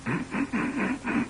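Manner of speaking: soft, high put-on snicker; editorial snickering. Host slips editorial snickering behind the monologue, soft mock snicker. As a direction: snicker quietly in short little pulses. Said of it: "editorial snickering in the background".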